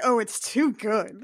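slow, mildly smug savouring; a touch of self-satisfied delight; smugly delighted. Acted. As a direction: relish it slowly, pleased with your own cleverness. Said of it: "he is very smugly delighted".

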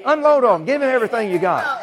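high, loud shouted urging; forceful exhortation. Real, not acted. Preacher telling believers to unload on the devil, shouted exhortation. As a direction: drive the congregation on at full voice.

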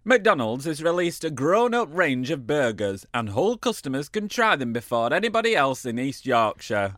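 put-on Hull accent. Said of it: "read this with a, my best Hull accent".

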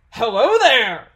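loud, innocent friendly greeting to cover for them; friendly call. A narrator's reading. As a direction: greet them cheerily across the street. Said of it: "a friendly voice called out".

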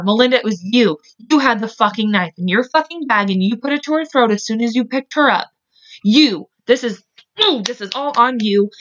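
real anger, pitch climbing; heated, pointed blame; indignant accusation. Real, not acted. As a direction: lay the blame squarely on her. Directly accuses the killer she retells.

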